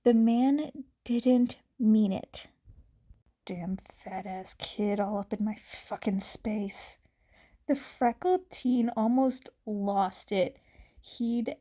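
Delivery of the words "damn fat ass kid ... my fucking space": unvoiced whisper, spat out low; whispered grumble. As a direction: hiss it under your breath like a rude stranger. Man's rude thought, whispered.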